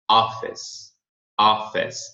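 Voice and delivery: "office" ending on S, no vowel after; final S sound. Shown as a demonstration. Teacher warns against a final E, S-ending demo. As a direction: stop "office" on a clean S. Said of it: "vai parar no som do S".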